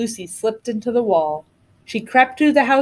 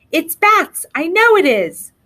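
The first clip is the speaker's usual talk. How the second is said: high, loud and gleeful brother; cheerfully certain, raised voice; happy; 8 semitones higher, 4 dB louder than usual. A narrator's reading. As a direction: crow it happily, pitched up. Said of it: "said her brother happily".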